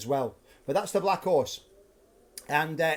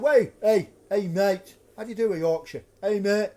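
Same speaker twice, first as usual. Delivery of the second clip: mock Yorkshire. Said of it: "I think that's Yorkshire".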